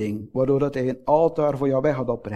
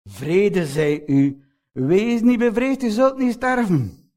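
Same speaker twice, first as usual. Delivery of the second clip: comforting words; 3 semitones higher than usual. Acted. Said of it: "die o zo vertroostende en geruststaande woorden".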